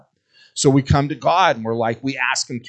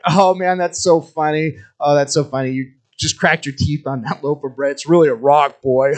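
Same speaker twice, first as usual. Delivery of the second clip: higher, louder gloating dad; mocking dad; 3 semitones higher, 6 dB louder than usual. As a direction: cackle at the kid's broken teeth. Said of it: "his dad's like".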